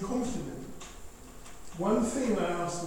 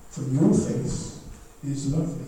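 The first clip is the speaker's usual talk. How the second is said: tender reassurance; 5 semitones lower than usual. Acted.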